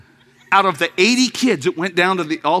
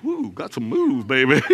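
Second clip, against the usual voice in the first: lady cheering; 3 semitones lower than usual. Retold or imitated. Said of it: "She goes".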